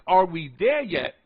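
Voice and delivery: "there" lifted then falling; THERE stands out in the question; stress on THERE. Shown as a demonstration. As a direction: lean on the word "there". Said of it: "I'm focusing on there".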